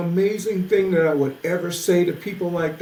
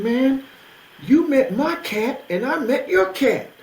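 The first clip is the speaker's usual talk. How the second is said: excited; 8 semitones higher, 4 dB louder than usual. Retold or imitated. The speaker recounting, excited.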